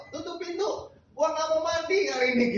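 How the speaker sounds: very high, loud mock tantrum; imitating a child throwing a fit; raging kid. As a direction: yell her out of the room.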